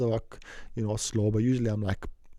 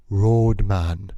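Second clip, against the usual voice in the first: loud single word, a rising call; passer-by calling out behind him; called-out label; 3 semitones lower, 6 dB louder than usual. Retold or imitated. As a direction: shout it after someone. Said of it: "this is what I hear".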